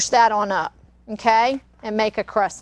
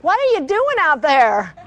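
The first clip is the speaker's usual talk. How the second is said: playfully voiced protest from the unborn baby, higher pitch; mock-indignant baby in the womb, pitched up; imagined indignant baby; 4 semitones higher, 4 dB louder than usual. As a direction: speak up for a disturbed baby. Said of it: "He's like".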